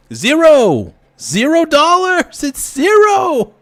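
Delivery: rising angry yell. Real, not acted. Angry rant about Bitcoin value.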